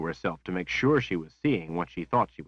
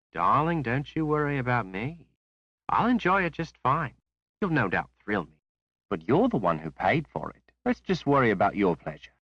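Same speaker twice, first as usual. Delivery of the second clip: higher, sweet voice with a thread of sarcasm; a young courtesan teasing her client; Rose, sly and breathy; 6 semitones higher than usual. A narrator's reading. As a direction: purr it, sarcasm hidden under sweetness. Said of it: "She cloaked it well with a breathy tone".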